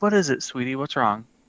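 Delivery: nice, soft-spoken, gentle, concerned voice. Voicing a character who crouches to a child's level: saying it nicely, gently. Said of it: "try to say it nicely".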